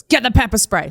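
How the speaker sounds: pressing, punched-out instruction; urgent order, retold. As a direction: imitate a worker calling for backup. Worker urgently calls to coworker.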